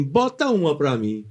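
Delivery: imitating a pushy customer's order; mildly insolent, demanding mimicry; cheeky customer. Rude customer ordering the young waiter, cheeky. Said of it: "o cara chegar abusado assim".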